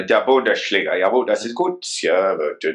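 put-on German accent; mock German with stock phrases. Football host clowning in German for his co-host, mock German accent. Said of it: "That was a good German accent".

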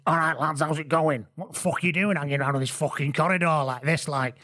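light Mancunian swagger, sweary; like a famous singer. Retold or imitated. Steve Diamond finds lads in corridor, light Manc swagger. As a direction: greet them like a cocky Manc. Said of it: "essentially become a famous singer in your retelling".

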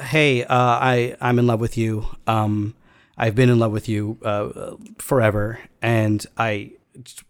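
halting, slightly subdued admission; hesitant love confession. Retold or imitated. Man confessing long-held love to his friend, hesitant and subdued. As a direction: confess it haltingly, feeling for each word.

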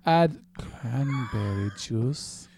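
slow, lightly sultry mock read; mock sexy read. Reading the recipe sexier on request, slow and mock sultry. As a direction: purr the recipe, hammed-up seduction. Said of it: "In a sexier voice".

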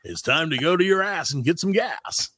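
DJ voice. Pretend. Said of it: "he talks like that the whole time".

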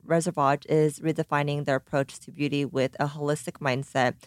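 scripted brand copy read. Acted. Host reads the sponsor's brand copy, polished ad read. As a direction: read the brand slogan smoothly.

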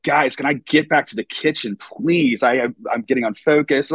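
urgent, fretful request; anxious plea. Retold or imitated. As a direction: beg the hosts to let you cook. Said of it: "I'm like".

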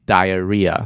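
slow "diarrhea", stress where the two Rs meet; "diarrhea" slowly, H silent; teacher modelling "diarrhea", stressed mid-word; stress between the Rs. Shown as a demonstration. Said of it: "重音落在两个R的中间".

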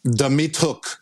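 French accent. Shown as a demonstration. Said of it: "I got carried away with the French thing".

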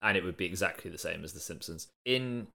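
groggy hungover voice. Real, not acted. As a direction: sound hungover, rough morning. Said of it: "how you noticeably sound hungover".

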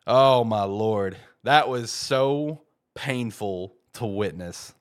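normal talking voice

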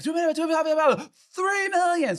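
high, loud imitation of overlapping bidders; frantic shouted bids, escalating; crazy bidding calls. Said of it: "So it just goes crazy".

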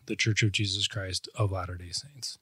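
measured, meaningful delivery of the name; thoughtful, with meaning. Real, not acted. Guest explains the church's full name, thoughtfully. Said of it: "love how you just said it ... thoughtfully, slowly, with meaning".

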